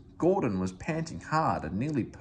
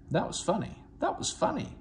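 chuckling; 10 semitones higher than usual. A narrator's reading. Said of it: "he chuckled".

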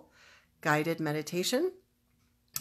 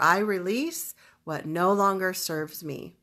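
firm, emphatic affirmation; deliberate, weighted statement; powerful declaration; 4 dB louder than usual. Shown as a demonstration. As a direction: declare it with conviction. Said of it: "very emotionally powerful declaration".

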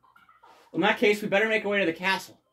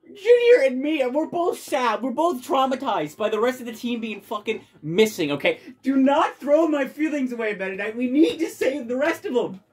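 mock sad character; 5 semitones higher, 3 dB louder than usual.

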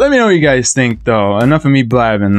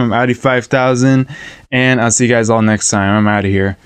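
breathless, winded sign-off; out of breath. Real, not acted. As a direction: talk while short of breath. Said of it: "I'm out of breath".

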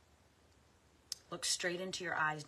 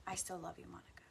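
voiceless, soft I love you; whispered self-love; 7 dB quieter, much faster than usual. Real, not acted. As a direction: whisper it tenderly to yourself. Loving self-affirmation.

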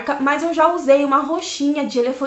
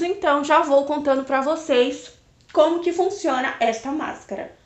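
lips covered by wet sheet; slightly restricted lip movement; talking through a sheet mask. Real, not acted. Seen 0: Wet sheet mask covers lips while speaking; she later frees mouth.

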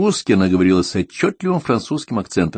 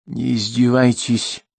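put-on slow, cold warning from the old woman; mild angry old lady; angry rebuke; 6 semitones higher, slower than usual. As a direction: rebuke him angrily, slowly. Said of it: "гневно сверкнула глазами Полонская".

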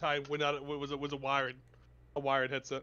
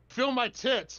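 higher-pitched mock drunk demand; imitated drunk yelling; 8 semitones higher, 4 dB louder, much slower than usual. Son retelling what his drunk mother demanded, mock yelling. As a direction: mimic a drunk mother's insistent call. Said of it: "drunk yelling".

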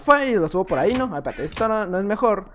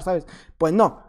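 usual speaking voice

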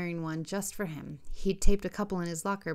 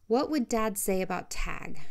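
slow, lilting sing-song; soft sing-song. Acted. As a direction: croon it gently, sing-song. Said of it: "in a soft sing-song voice".

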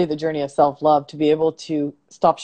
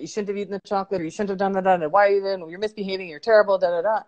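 mock berating; 2 semitones higher, faster than usual. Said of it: "we berate ourselves like that".

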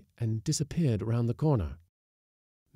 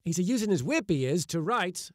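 put-on Old Toodles; 8 semitones higher than usual.

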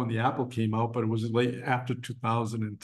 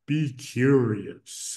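slow, drawn-out ad slogan; imitated commercial host; much slower than usual. Imitating the PBS commercial's talker, slow and drawn out. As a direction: stretch it out slowly like a TV host. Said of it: "he's like".

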